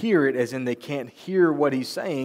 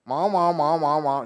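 Charlie Brown's teacher. Retold or imitated. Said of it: "like Charlie Brown's teacher".

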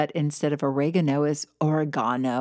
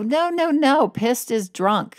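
friends laughing; 8 semitones higher than usual. Retold or imitated. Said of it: "they would laugh and they would go".

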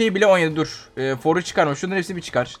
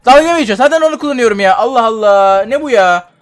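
annoyed outburst; 3 semitones higher, 4 dB louder than usual. Real, not acted. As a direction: vent at the game. Yanlış eşya geldi, sinirleniyor. (oyuna sinirli sitem)

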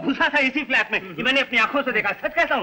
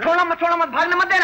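urgent calling out; 3 semitones higher, faster than usual. Acted. Crowd seizing a suspected thief.

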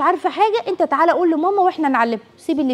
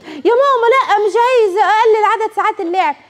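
put-on pleading child; 8 semitones higher, 3 dB louder than usual. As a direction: beg like a child about to lose playtime.

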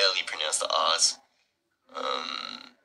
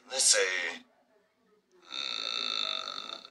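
ordinary talk, nothing marked

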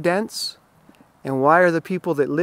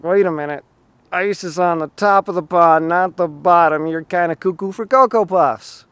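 mock incredulous objection; 5 dB louder than usual. Rest of the world objects.

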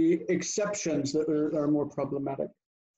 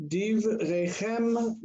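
slowly modelled; 5 semitones higher, much slower than usual. Shown as a demonstration. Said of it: "teacher models the word slowly".

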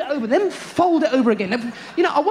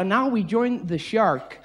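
slow, hushed nature-show narration; documentary narrator; 4 semitones lower, much slower than usual. Retold or imitated. Shark documentary presenter, slow hushed narration. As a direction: savour it like a wildlife presenter. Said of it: "they go".

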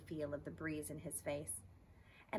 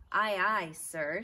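eager shout; 3 semitones higher, 10 dB louder, slower than usual. Acted. Stuart accepts eagerly.

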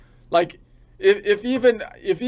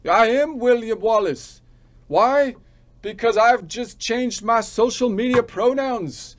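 hammed-up Scottish brogue, higher-pitched; William Wallace; 3 semitones higher than usual. Declaring himself Wallace to doubters, mock Scottish battle-speech. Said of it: "to a Scottish William Wallace".

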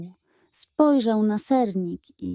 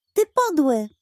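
a higher, hammed-up pug insult; mock outrage; 5 semitones higher than usual. A narrator's reading. Pug calling the cat mean, in mock outrage. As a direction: spit it out, offended.

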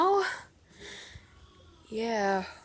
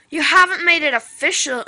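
louder and fast, disbelieving; incredulous; 4 semitones higher, 10 dB louder, faster than usual. Acted. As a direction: fire the question back in shock. Friend shocked at the news.

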